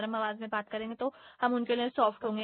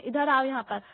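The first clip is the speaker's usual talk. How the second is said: a somewhat louder, sharper summons; angry call; 4 dB louder than usual. Shown as a demonstration. Teacher demonstrates calling a student over in anger. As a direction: call them over as if you are annoyed. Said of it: "गुस्से से चिल्लाकर बोलेंगे".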